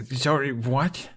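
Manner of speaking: choking on the shock; spluttering. A narrator's reading. Hiccup spluttering at his father's remark, stunned. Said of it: "he spluttered".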